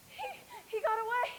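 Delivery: crying with relief; tearful relief. Acted. Dorothy tearfully relieved Toto escaped. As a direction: sob it out.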